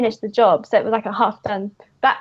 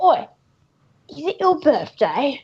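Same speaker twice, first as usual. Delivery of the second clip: a hint of a menacing bloke; lightly voiced burglar; 2 semitones higher than usual. Burglar accosting a stranger in the comic, lightly voiced thug. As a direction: read the comic thug's line in character. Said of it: "this burglar guy, he's like".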